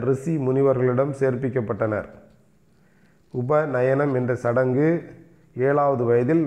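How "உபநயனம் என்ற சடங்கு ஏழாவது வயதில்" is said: slowed down so students can write it; slow, deliberate dictation of the term. Shown as a demonstration. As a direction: dictate each word slowly, like a teacher. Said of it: "ஏழாவது வயதில் உபநயனம் என்ற சடங்கு".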